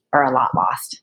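breathy whispered aside. Acted. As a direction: drop to a whisper for emphasis.

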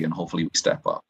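microphone knocked mid-sentence; mic bump. Real, not acted. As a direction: bump the mic while talking. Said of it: "You, you okay? You banged your mic".

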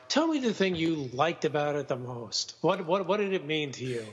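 quick, mock-earnest interviewer voice; mocking imitation. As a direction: parody his eager questions. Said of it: "You do this where you".

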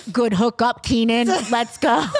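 light mock robot voice. Retelling a college hookup in her robot voice, light mock robot. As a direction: chirp it like a cheerful machine. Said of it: "Why'd you talk in a robot voice".

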